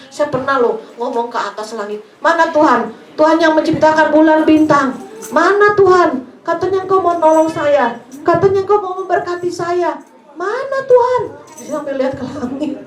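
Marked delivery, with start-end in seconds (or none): 2.2-11.2 anguished cry to God. Retold or imitated. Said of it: "sedih, nangis".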